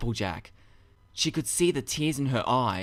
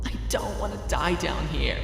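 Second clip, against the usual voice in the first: tearful; 5 semitones higher than usual. A narrator's reading. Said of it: "unable to fight her tears".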